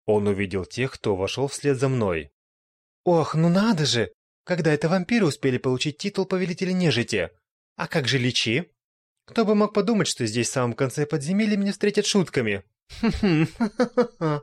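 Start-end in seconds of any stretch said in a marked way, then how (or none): 3.0-14.4 high, loud scornful jeering; mocking demon. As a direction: sneer at the boss's title. Demon mocks the vampire.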